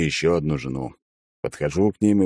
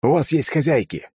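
commanding; 8 semitones higher than usual. A narrator's reading. Commanding the birds.

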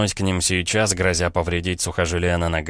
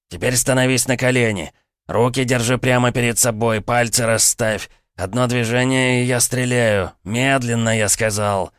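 commanding gunman; 5 semitones higher than usual. Acted. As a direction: command him down step by step. Gunman ordering hero to kneel.

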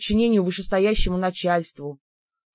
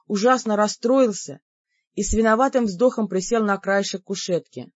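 plain reading voice

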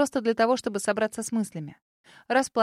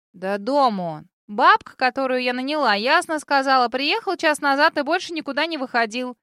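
put-on sassy girl voice; 4 semitones higher, 7 dB louder than usual. A narrator's reading.

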